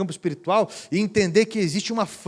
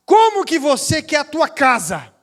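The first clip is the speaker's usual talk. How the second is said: loud, high pastor's insistence; urging call; 8 semitones higher, 7 dB louder than usual. Retold or imitated. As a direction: push her to answer, loudly. Pastor urges the woman.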